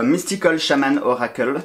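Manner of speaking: English title said with a showy accent; English pronunciation amid French talk. Shown as a demonstration. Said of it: "Vous avez vu avec l'accent".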